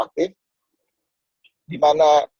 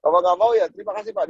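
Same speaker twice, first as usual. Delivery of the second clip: a touch higher, gushing gratitude at rejection; mock joyful thanks; 5 semitones higher than usual. Salesman thanking a man who refused him, mock joyful. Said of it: "Wah, orang gila nih".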